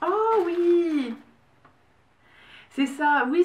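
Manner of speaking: high, drawn-out squeal of recognition; a real, thrilled "oh yes", voice shooting up; delighted discovery. Real, not acted. Gift opener spots a wished-for present, delighted.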